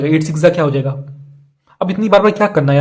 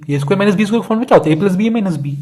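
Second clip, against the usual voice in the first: rapid, a bit higher quiz question; fast rattled-off repeat; 4 semitones higher, faster than usual. Shown as a demonstration. Teacher rapidly re-asking students a formula. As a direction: fire the question off quickly. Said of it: "teacher quizzing class".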